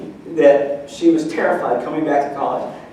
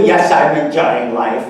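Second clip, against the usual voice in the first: mock gloomy yes; 2 semitones lower, 4 dB louder than usual. Mock grumpy reply.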